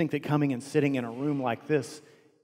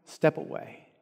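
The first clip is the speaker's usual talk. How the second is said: loud, chest-puffed boast, higher and louder; boastful bravado; 4 semitones higher, 3 dB louder than usual. Acted. Peter boasting to Jesus before the arrest, in loud bravado. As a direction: brag like you'd never flinch. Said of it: "puffed out his chest and said".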